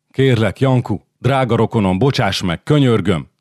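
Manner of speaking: high, urgent plea to a kinsman; pleading. Acted. Radul begs for his life.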